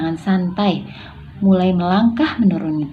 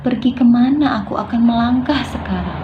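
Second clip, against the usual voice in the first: mildly bewildered, raised questioning voice; confused; 4 semitones higher than usual. Shown as a demonstration. Child asking Mama where to go next, confused. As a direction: ask as if lost, pitch lifted. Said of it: "yang kebingungan, yaitu bingung".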